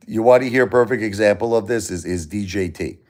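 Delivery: ordinary delivery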